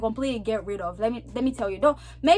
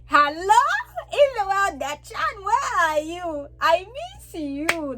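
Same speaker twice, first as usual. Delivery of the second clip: high, drawn-out Zambian accent; strong Zambian accent; 6 semitones higher, slower than usual. Shown as a demonstration. Greeting someone from Zambia, strong Zambian accent. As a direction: let the Zambian accent burst out, pitched up and stretched. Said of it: "if I'm talking to someone from Zambia".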